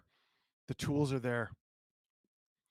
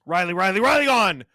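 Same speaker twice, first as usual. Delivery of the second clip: rising excitement; 4 semitones higher, 7 dB louder than usual. Real, not acted. Building power play call.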